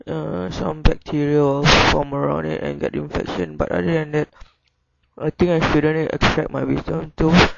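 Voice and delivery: words pushed through a nearly shut jaw; closed mouth talking. Real, not acted. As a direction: keep your teeth close and talk anyway. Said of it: "I can't open my mouth".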